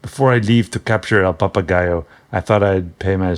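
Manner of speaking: a light put-on Spanish accent, barely shifted; lightly voiced Spanish-accented hero; mock Spanish accent. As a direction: read the quote with a hint of a Spanish accent, half-hearted. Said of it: "a Spanish accent".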